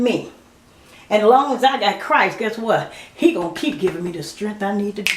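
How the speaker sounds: a touch of church preaching to her viewers. Real, not acted. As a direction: testify with growing fervor. Preaching a faith declaration.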